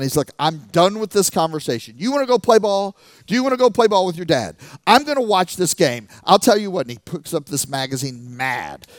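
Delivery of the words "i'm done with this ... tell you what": louder, raised exasperated father; a fed-up dad losing patience; frustrated dad. Retold or imitated. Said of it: "he gets so frustrated".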